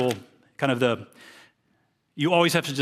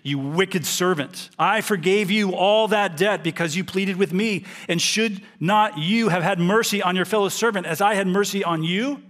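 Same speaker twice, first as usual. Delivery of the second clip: stern rebuke; 5 semitones higher than usual. Acted. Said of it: "his master summoned him and said to him".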